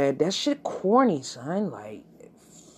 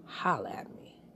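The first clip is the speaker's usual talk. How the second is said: whisper; 3 semitones lower, 10 dB quieter than usual. Real, not acted.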